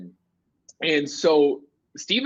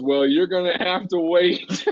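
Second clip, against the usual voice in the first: slow, drawn-out mock announcement; string the crowd along, stretching the words; retold emcee holding back the reveal; imitated host's tease; 3 semitones higher than usual. Retells host teasing the crowd.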